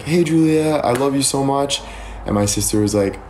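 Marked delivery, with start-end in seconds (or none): 0.0-1.8 imitating Addison. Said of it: "She's like".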